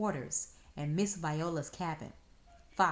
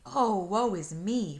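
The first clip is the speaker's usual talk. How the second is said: melodramatic lament; 4 semitones higher, 8 dB louder than usual. Acted. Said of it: "Fox hollered".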